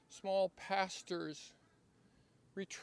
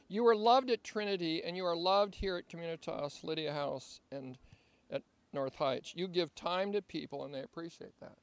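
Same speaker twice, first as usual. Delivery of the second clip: reading a love letter; 4 dB louder than usual. Shown as a demonstration. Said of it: "as I read this love letter".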